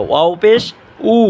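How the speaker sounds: উ with both lips rounded. Shown as a demonstration. Teacher showing viewers waw, round-lipped উ. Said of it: "দুই ঠোঁট গুল করিয়া উচ্চারণ করব".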